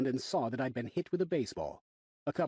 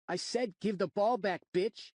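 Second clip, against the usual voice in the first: put-on bratty kid demand; 9 semitones higher, slower than usual. A narrator's reading. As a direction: snarl it like a punk. Rude kid demanding ball.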